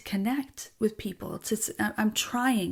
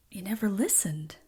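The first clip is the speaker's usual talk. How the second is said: hushed, breathy retelling of never listened; quietly retold reproach to family; whispered retort; 3 dB quieter than usual. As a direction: whisper it like a wounded accusation. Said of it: "And I'm like".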